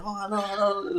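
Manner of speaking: a hint of an eager foreign guest saying hello; imitating the friendly magazine crew; friendly greeting. Visitors' friendly greeting, retold.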